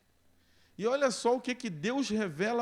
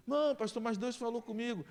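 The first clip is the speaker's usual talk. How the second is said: higher pleading voice; eager member insisting to the pastor, higher; 5 semitones higher than usual. Acted.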